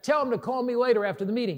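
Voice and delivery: high-pitched, hurried call up to the balcony; fast retold shout across the stadium; yelling back. Pastor calling back to the producer, hurried and high. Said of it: "I yelled back".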